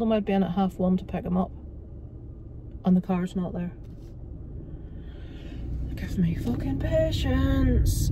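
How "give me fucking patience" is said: high, slow, drawn-out plea, real frustration; pleading for patience. Real, not acted. Vlogger waiting for her missing dad, exasperated plea. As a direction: beg the sky for patience through your teeth.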